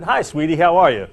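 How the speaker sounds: lightly put-on gushing hello; a hint of a colleague's sugary phone greeting; Jackie's way of talking. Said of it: "That's the way she talks".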